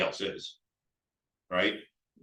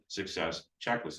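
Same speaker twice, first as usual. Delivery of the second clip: careful, low and softer wording; said carefully; 4 semitones lower, 5 dB quieter than usual. Real, not acted. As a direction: get through a tongue-twister carefully. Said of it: "I have to say it slowly".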